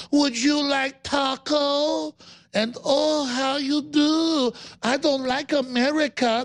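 high, very slow mock Hispanic accent; condescending fake accent. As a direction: talk down in an exaggerated, drawn-out fake Hispanic accent. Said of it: "put on a weird accent for some group".

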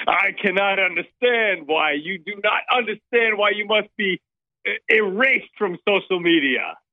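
half-committed fake foreign accent; Sebastian Gorka. Caller posing as Gorka complains of being erased, half-hearted fake accent. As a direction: put on a loosely faked accent. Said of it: "commit more to the fake accent".

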